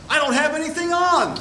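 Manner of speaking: high giggling alarm; laughing. Acted. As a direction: squeal it through a laugh. Embarrassed Jolie.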